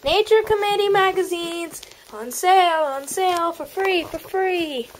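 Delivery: high sing-song seller's call; calling out wares. Acted. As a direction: hawk the magazines.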